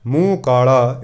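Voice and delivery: slow, measured verse reading; scripture recitation. Acted. Preacher reading Gurbani to the congregation, slow recitation. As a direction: draw out each word of the sacred verse.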